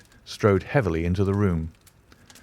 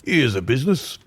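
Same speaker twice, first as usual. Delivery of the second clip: muffled husky cry; 4 semitones higher than usual. A narrator's reading. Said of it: "he cried in a muffled, husky voice".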